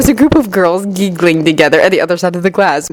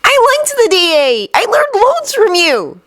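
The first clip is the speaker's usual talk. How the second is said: disappointed; slower than usual. A narrator's reading. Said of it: "utterly disappointed".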